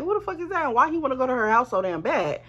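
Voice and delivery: high, sharp who, then indignant; incredulous demand. Retold or imitated. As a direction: demand answers, annoyed and suspicious. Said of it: "I'm like".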